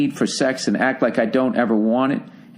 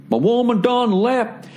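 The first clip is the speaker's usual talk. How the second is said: mock hick soldier; 9 semitones higher, slower than usual. Mock hick military husband.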